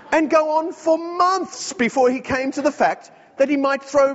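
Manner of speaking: spirited reading of a quoted passage; reading aloud. Shown as a demonstration. Preacher reading Chesterton to the congregation, lively read-aloud. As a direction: read it out with relish, building on the list. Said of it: "I'll give it the Aussie touch".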